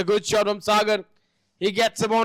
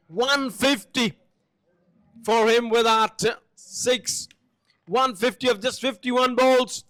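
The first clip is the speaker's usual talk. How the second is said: slow, drawn-out milestone call; excited cricket commentary; 4 semitones higher, slower than usual. Acted. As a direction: savour the hundred and fifty.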